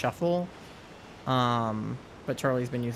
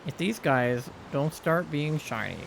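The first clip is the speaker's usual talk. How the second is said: whiny tattling little sibling; 4 dB quieter than usual. Pretend. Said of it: "I'm telling Mom".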